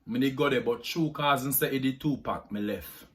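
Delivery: deep Jamaican patois. Shown as a demonstration. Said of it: "Jamaican accent tag".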